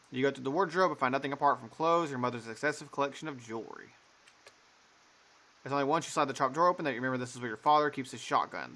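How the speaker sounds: measured narrator read; game narration. Acted. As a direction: set the scene like a storyteller.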